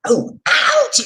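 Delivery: high pretend yelp of pain; playful fake pain cry; mock ouch. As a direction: cry out as if bonked on the head. Pretend hit on the head.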